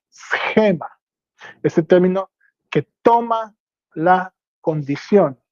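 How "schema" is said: "Schema" stressed on the E; acento on the E. Shown as a demonstration. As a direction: say "Schema" with the accent on its E. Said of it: "y acento en la E". ("Schema" con acento en la E)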